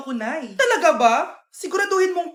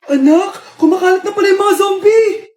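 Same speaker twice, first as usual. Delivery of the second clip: shouting; 6 dB louder than usual. Acted. Mother shouting zombie news.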